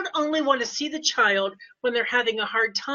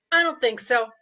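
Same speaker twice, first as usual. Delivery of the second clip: firmer voice. Retold or imitated. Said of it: "it's a different voice, and it's a little bit firmer".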